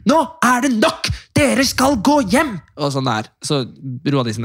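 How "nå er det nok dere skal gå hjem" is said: high, slow firm mock command; stern yelling. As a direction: order the kids home like a fed-up girlfriend. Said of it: "var sånn". (bestemt rop)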